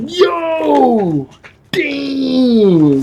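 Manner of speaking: high, stunned exclamation; a real "yo, damn" of shock. Real, not acted. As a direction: blurt it out in disbelief. Shocked reaction to surprise death.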